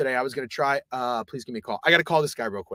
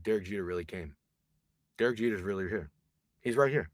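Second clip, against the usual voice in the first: hushed awe; 7 semitones lower, 9 dB quieter than usual. Retold or imitated. Awed aside about the star.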